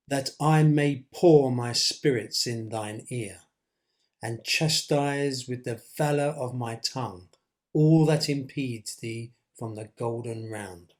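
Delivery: slow, measured Shakespearean verse; dramatic quote reading. Acted. Teacher quoting Lady Macbeth on changing her husband, slow dramatic reading. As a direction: draw out each phrase of the verse.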